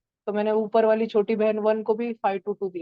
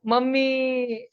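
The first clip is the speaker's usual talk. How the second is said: drawn-out, mildly whiny call for mummy; a touch of a tearful kid calling mum; crying for mummy; 3 semitones higher, much slower than usual. Acted. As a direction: stretch it slowly like a child starting to cry. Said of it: "वन रोने लग गया".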